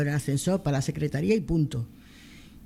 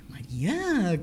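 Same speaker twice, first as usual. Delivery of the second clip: whispered name; 3 semitones higher, much slower than usual. Retold or imitated. A nurse whispering María's name in the theatre. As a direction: call her name under your breath. Colleague greets her softly.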